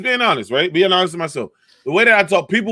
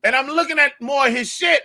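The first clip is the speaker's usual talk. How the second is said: usual speaking voice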